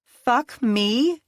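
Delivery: high, loud snarl; mocking angry snarl. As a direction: throw his words back with a snarl. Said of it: "she snarled".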